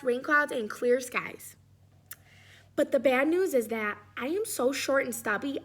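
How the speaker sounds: a hint of a worn-out crayon, slowing at the end; lightly voiced tired crayon. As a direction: read the weary letter gently. Reads Blue Crayon's letter.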